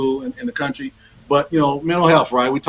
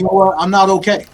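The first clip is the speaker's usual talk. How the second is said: admitting not okay; 5 semitones higher than usual. Retold or imitated. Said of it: "okay to let it out and say".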